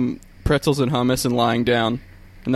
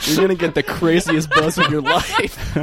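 laughing; 3 semitones higher than usual. Real, not acted. Laughing through the bit.

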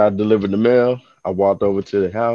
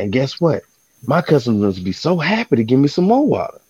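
theatrical boast; 5 semitones higher than usual. Retold or imitated. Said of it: "really enthused and theatrical".

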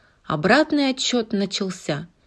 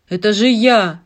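proud; 7 dB louder than usual. Acted. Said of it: "засветился от гордости".

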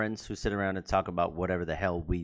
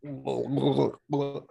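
high playful meowing; cat meows; 5 semitones higher, slower than usual. Pretend. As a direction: meow like a cat. Host echoes cat meows.

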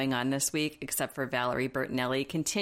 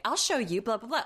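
mock bratty teen; 6 semitones higher than usual. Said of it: "like, march around".

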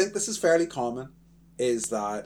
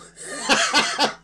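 breathy giggle at own pun; corny dad laugh; 8 dB louder than usual. Real, not acted. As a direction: crack up at your own joke. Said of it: "laughing at my own joke there".

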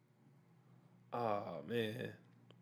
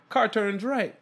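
audio description voice; 9 semitones higher, 4 dB louder, much slower than usual. Retold or imitated. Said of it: "They give you all the stage direction".

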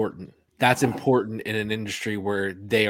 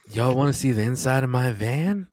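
creepy voice. Pretend. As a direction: coax them in like a creep. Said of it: "I'm a fucking creep".

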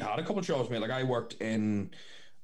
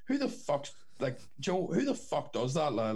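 retold outrage; 4 semitones higher than usual. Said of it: "I was like".

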